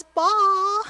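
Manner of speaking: "Ball" asked up high with a hesitant upward question; a hopeful, unsure "Ball?" rising at the end; timid ask. Shown as a demonstration. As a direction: ask for "Ball" as if hoping someone notices. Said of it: "Like, maybe someday, possibly, would you consider me?".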